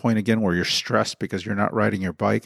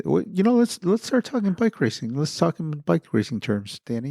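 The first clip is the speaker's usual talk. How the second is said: higher-pitched, hammed-up commentator voice addressing Danny; mock sports pundit; 4 semitones higher than usual. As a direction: play a cheesy race commentator welcoming him back. Mock pundit talking bike racing.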